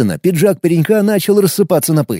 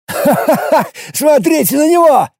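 mocking guffaw; 12 semitones higher than usual. Timur mocking the dust tentacles, guffawing higher. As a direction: laugh the words out, scornful. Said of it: "захохотал Тимур".

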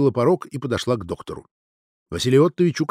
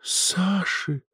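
higher, breathed-out shocked name; exhaled; 6 semitones higher, 4 dB quieter than usual. A narrator's reading. Natalia names the dead friend's handwriting, exhaled. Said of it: "выдохнула Наталья".

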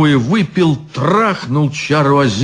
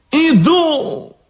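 eager reply. Acted. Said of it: "откликнулся изящный чёрт".

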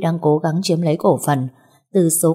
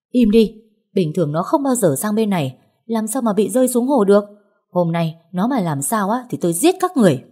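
angry snapping; 4 semitones higher than usual. Acted. Hysterical mother shouting down the maid, threatening them. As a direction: cut her off in a rage.

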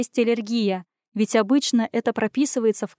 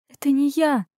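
plain reading voice

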